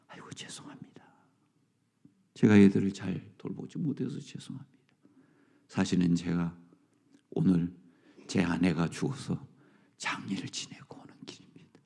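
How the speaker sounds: whispered, low broken apology; a bereaved father apologizing in a hush; grief-stricken apology. Retold or imitated. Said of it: "그 아버지".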